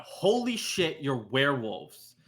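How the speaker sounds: narrator's restrained version of a shout; mild mock shout. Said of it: "You shout".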